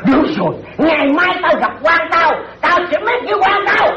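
high-pitched threat to tell on someone; indignant threat. Acted. Threatens to report to official.

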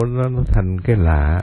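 ordinary talk

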